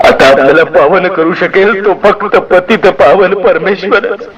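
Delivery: defeated father, slow and meek; meek, humble voice. A narrator's reading. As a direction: speak like a man with nothing left. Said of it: "आणखी गरीब आवाजात".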